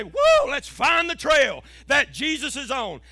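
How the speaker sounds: drawn-out whoa, then a rousing pulpit cry; rally the church like a showy preacher; hyped-up preaching. Acted. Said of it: "makes good preaching to get up here and say".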